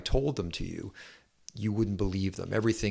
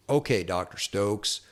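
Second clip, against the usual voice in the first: Southern drawl. Retold or imitated. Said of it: "this real Southern drawl".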